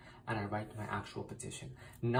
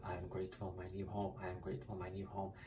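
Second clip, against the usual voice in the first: softly, under the breath, looping the words; quiet chanted repeat; quiet mantra repetition; 2 semitones lower, 6 dB quieter than usual. Shown as a demonstration. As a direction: murmur it over and over like a mantra. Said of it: "go over and over and over with".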